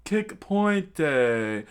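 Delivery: loud, drawn-out battle cry; attack call. Acted. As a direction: sing out the move with flourish. Fighter calls out attack name.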